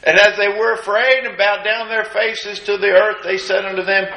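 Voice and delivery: steady, measured Bible reading; scripture reading. Acted. Preacher reading Luke to the congregation, measured. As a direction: read the passage evenly.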